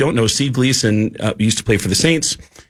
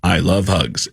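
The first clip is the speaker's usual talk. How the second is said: voice box speech; 5 semitones lower, slower than usual. Retold or imitated. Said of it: "And he said".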